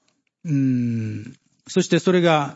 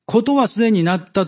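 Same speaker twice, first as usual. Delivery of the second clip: higher and louder, like a voice from heaven; thunderous divine declaration, raised high; ringing proclamation; 6 semitones higher, 4 dB louder than usual. Acted. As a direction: proclaim it so it shakes the earth. という言葉が発せられて、その声が天と地を震わせる.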